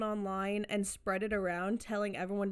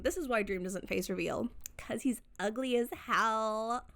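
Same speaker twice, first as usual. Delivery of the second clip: put-on Valley Girl voice. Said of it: "I keep doing the Valley Girl voice".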